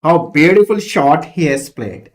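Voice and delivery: loud, admiring call of the shot; admiring exclamation. Shown as a demonstration. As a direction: praise the batsman's stroke. Example exclamation read.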